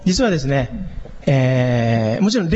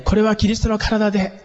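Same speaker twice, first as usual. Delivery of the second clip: raised, projected voice to reach the whole hall; projected loudly; 5 semitones higher than usual. Shown as a demonstration. Pastor projecting to the congregation without a mic, loudly. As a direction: push it out so everyone hears. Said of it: "聞こえるようにしようとすると".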